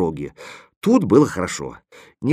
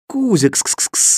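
high, drawn-out pet call; slow, high coaxing call; calling a cat; 9 semitones higher, slower than usual. A narrator's reading. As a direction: call the cat over with hissed kss-kss. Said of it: "звал я кота".

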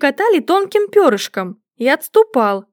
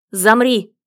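ringing low command; 2 semitones lower than usual. A narrator's reading. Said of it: "выкрикнул звенящим низким голосом".

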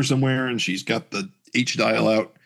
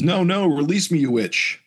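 acted alarmed protest; 8 semitones higher than usual. Trapped villain demands release.

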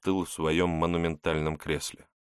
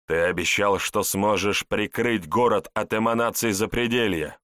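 angry; 2 semitones higher, 4 dB louder than usual. Acted. Boss rages at subordinate.

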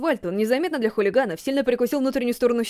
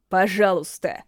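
pleading; 4 semitones lower, slower than usual. Acted. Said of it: "взмолился Канеки".

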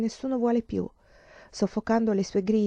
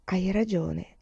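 dejected; 4 dB quieter, slower than usual. A narrator's reading. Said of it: "disse Lelia sconsolata".

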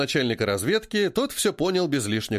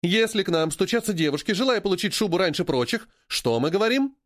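drill-leader's prompt; 4 semitones higher than usual. A narrator's reading. Boss drilling her staff.

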